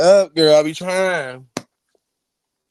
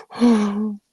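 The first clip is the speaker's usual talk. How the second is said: higher, put-on voice of mock pride; mock dramatic voice; 7 semitones higher, much slower than usual. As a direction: ham up a grand announcement.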